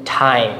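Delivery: "টাইম" with its i sound stretched; long vowel. Shown as a demonstration. Teacher applies the silent-e rule, long vowel in "টাইম". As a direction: lengthen the vowel before m in "টাইম". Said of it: "আমরা সর্বোচ্চ বেশি লম্বা করি".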